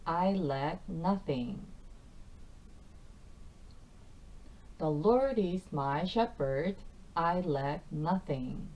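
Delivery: each word slow and clear for learners; slow repeat-after-me. Shown as a demonstration. Teacher leading students through the verse slowly. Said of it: "일 절 전체 구절 세 번 반복해 보도록".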